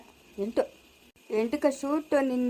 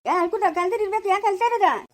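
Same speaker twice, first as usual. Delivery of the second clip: put-on sharp, raised call at the kids; scolding shout; 3 semitones higher than usual. Elder shouting at the tied-up crying children. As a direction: snap at them to stop crying.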